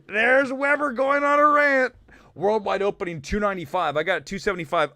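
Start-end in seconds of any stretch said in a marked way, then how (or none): 0.1-1.9 high, amused voice just after laughing; laughing self-mockery. Real, not acted. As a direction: say it coming out of a laugh. Laughing at his own rant.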